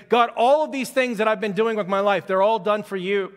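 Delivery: man in a field begging God after his work burned; pleading cry to God. Acted. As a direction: cry out to God in grief, pressing harder. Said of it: "he cries out".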